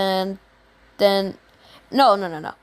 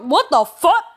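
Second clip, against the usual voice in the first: much higher and louder disbelief; shocked classmates; 7 semitones higher, 5 dB louder than usual. Retold or imitated. Classmates reacting to the three hundred throw, high and loud. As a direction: squeal out the shock.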